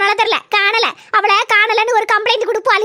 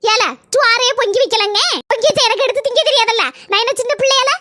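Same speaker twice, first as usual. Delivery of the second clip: mildly angry retort, voice rising a little; indignant; 3 semitones higher than usual. Acted. Mother protesting to her son that no rice was cooked, indignant. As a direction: snap back at being blamed, annoyed. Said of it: "சரி, கோவப்படாத".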